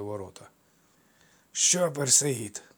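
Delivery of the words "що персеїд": grumbled taunt. Acted. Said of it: "буркнув присадкуватий широкоплечий ремісник".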